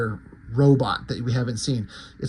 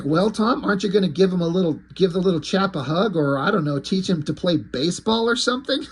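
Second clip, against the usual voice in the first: smart-ass villain's teasing, pitched up; higher-pitched, lightly acted sarcasm; Paul Savine, sarcastic; 4 semitones higher than usual. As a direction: needle him with mock-helpful suggestions. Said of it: "smart ass and sarcastic".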